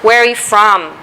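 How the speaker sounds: "from" drops to a low finish; falling question intonation. Shown as a demonstration. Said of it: "the voice goes down".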